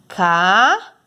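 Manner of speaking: Carro split into slow syllables, ca-rro. Shown as a demonstration. Teacher sounding out a word for pupils, syllable by syllable. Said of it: "eu vou fazer aqui o exemplo carro".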